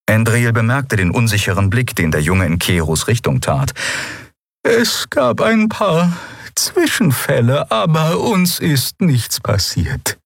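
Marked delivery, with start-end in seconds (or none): 4.6-10.2 reassuring. Acted. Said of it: "versicherte Xea".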